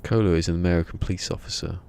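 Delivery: a self-mocking stab at an American cop; American accent. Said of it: "I'm doing a really good accent".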